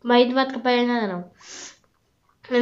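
hiccups with a sore throat; talking through hiccups; hiccuping. Real, not acted. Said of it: "tá tendo esse barulho aqui".

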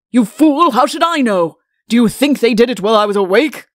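loud, exasperated outburst; irate royal retort, starting high; angry king. Acted. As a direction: berate the fool at full volume. King snaps at the Chancellor.

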